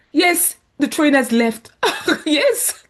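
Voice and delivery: laughing, slow and loud. Real, not acted. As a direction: laugh through the bad news. Laughing about missed train.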